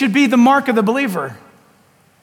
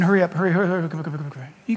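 urgent "hurry" dropping lower and softer; fading urging; 5 semitones lower, 5 dB quieter, much faster than usual. Retold or imitated. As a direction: urge them on, fading to a hush. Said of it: "And Jesus is saying".

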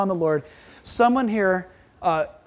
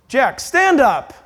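stern, louder summons; commanding God; 4 semitones higher, 5 dB louder, much slower than usual. Acted. God rousing the pastor from his doubt, commanding. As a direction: call him to his feet, slowly and firmly. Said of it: "this is how I need to hear it".

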